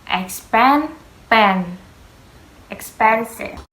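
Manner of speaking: expensive broken into pieces, then said whole; syllable breakdown. Shown as a demonstration. Student shows how to say expensive. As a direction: split expensive, then join it up. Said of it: "very expensive".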